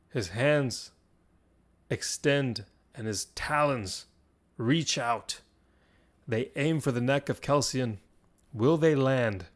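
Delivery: measured storytelling broken by dramatic pauses; game master narration. Acted. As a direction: draw out the suspense phrase by phrase.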